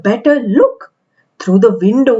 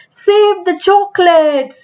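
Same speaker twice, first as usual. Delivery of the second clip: mild yell; 7 semitones higher than usual. A narrator's reading. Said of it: "yelled the man".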